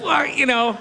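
high, slow, mock-sobbing acceptance speech; James Lipton, weeping speech. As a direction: blubber through the thanks, grandiose to the end. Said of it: "he starts crying at the very end".

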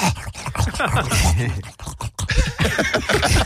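pug breathing noise. Retold or imitated. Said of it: "your impression of a pug watching sex".

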